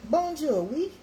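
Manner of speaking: high, loud sing-song bonjour; cheery French greeting. Shown as a demonstration. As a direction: call out a bright hello to Charlene. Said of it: "If you're speaking French".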